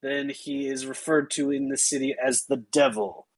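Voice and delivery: guard's rote official spiel; mildly deadpan city-gate speech. Acted. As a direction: recite the rules with little excitement. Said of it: "she is totally deadpan".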